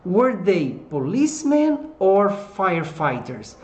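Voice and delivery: slow, drawn-out "policemen or firefighters"; careful English pronunciation. Shown as a demonstration. Teacher shows how to pronounce "policemen", slow and careful. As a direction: model "policemen" slowly, weight on its second syllable. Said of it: "de pronunciar aqui".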